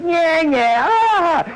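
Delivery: high, loud mocking "yeah, yeah, ah!"; taunting laugh. Man locked in the cab taunts Barney, a high mocking laugh. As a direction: jeer at the bouncer from safety.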